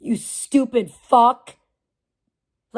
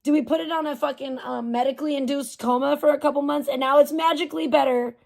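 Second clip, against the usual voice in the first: mock-innocent questions pitched higher at the start; a lightly hammed-up mocking voice; sarcastic mock; 3 semitones higher than usual. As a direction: sneer at the idea the tablet healed itself.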